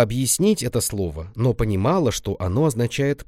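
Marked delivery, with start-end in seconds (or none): none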